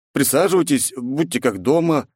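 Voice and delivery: pixie. Acted. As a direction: welcome him sweetly as a pixie. Fairy queen invites.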